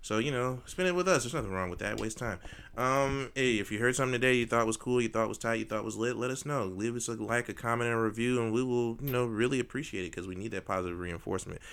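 lightly hammed-up showman announcer; ringmaster. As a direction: welcome the crowd like a ringmaster. Leads outro like announcer.

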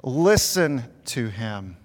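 very slow, measured proclamation as God; God's voice. Retold or imitated. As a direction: lightly voice God speaking from the cloud, drawing out each word. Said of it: "and the voice said".

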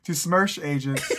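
put-on loud, half-hearted Russian accent; mock Russian accent. Retrying the book's opening for friends, loud mock Russian accent. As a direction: another go at a fake Russian accent. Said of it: "Trying to figure out how to do a Russian accent".

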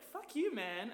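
high, loud fuck-you at a catcaller; shouted retort. Retold or imitated. Woman telling off a catcaller, defiant shout. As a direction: snap it back at them.

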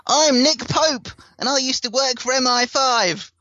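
breathy hushed intro as a mock UFO insider; high whispered spoof of a secretive ex-agent; Nick Pope impression. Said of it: "Not that Nick Pope is the best person".

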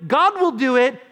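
loud, high and insistent; impassioned declaration. Acted. Preacher as David insisting on God's action, loud and impassioned. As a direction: proclaim it at full force. Climax of preached speech, then hushed repeat.

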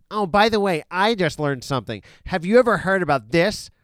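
mock a smug writer sharing a discovery, understated; snooty magazine writer. Mocking The Atlantic's snooty writers, a light snooty voice. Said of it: "That's my impression".

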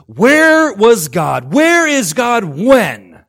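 loud, drawn-out high wail; crying out. Retold or imitated. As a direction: stretch each word as an imitated anguished demand. Acting people demanding where God was.

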